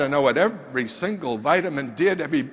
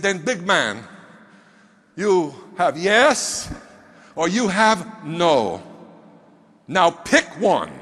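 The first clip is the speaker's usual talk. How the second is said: slow and deliberate, spacing out the words; stern ultimatum; slower than usual. Retold or imitated. Mentor forcing the big man to pick one, slow and firm. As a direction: lay down the choice very slowly.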